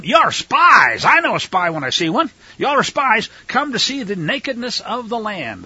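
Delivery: loud, high mock accusation; acted accusation. Joseph accuses his brothers of spying, acted loud accusation.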